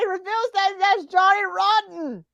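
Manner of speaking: high-pitched commentator disbelief; shocked reveal. Pretend. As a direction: call the twist as if just spotting it.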